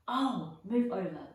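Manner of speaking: loud, impatient snarl. Acted. Hermione snarling at the boys to move, impatient and loud. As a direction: shove the boys aside with a loud snap. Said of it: "Hermione snarled".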